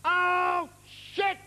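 high, drawn-out cry of dismay; sudden dismay. Retold or imitated. Friend in Central Park suddenly exclaims, dismayed. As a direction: burst out in mock horror. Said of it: "and he suddenly goes".

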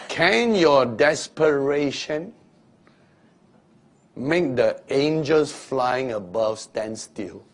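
ordinary delivery

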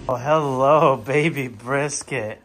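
tender, drawn-out dog greeting. Real, not acted. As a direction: coo it to a beloved puppy.

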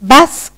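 "Basket" with a gap before the final syllable; split into syllables. Shown as a demonstration. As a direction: sound out "Basket" in two high parts. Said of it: "listen to your own sound as you say".

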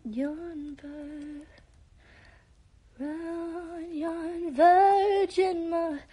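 put-on playful Southern accent on request, ending in a shout. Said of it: "can you speak with a southern accent".

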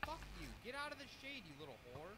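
high furious yelling at the screen; raging gamer. Real, not acted. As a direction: rage at the mob, pitch way up.

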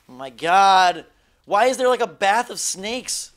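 loud, high oh my god; real alarmed outcry; startled. Real, not acted. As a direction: blurt it in disgusted shock. Startled by bath of snakes.

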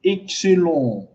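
"Excellent" said slowly and evenly for learners; pronunciation model. Shown as a demonstration. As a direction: model "Excellent" with a lengthened last syllable. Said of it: "C'est comme ça que vous allez prononcer". (« Excellent » prononcé lentement, comme modèle)

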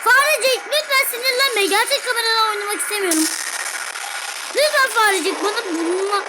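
high, begging plea; pleading. Real, not acted. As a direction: beg the mouse sweetly. Pleading with the mouse.

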